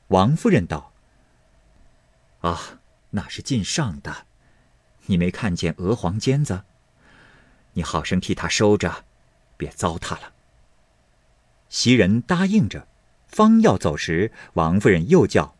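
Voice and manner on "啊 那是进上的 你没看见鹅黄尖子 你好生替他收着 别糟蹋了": a lightly voiced older lady, quiet and measured; calm mistress gently instructing a maid. (轻声低沉的王夫人)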